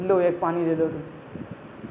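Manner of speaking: mock angry retort. Angry man dumps bucket of water.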